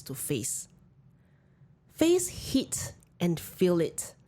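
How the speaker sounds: slow, measured reading; reading a passage aloud. Acted. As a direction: read it slowly and thoughtfully. Reads a book passage aloud.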